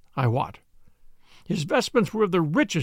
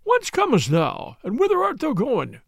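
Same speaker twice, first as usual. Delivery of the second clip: put-on frail breathless old person; 6 semitones higher than usual. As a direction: creak it out like a feeble old monk. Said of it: "in a high, wheezing voice".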